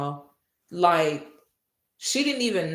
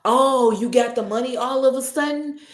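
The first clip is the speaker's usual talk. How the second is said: loud, high outraged yell; angry shouting; 6 semitones higher, 8 dB louder than usual. Retold or imitated. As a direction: call her out, furious. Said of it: "I said".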